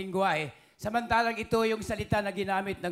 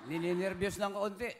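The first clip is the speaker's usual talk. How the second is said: softer, lowered admission; low voice; 4 semitones lower, 5 dB quieter than usual. Real, not acted. Contestant telling host he is slightly nervous, low voice. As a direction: drop the voice low and soft. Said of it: "Ay, mababa ka na".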